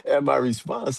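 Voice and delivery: amused high-pitched telling; laughing while talking. Real, not acted. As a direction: chuckle through the words. Chuckles while retelling her shock.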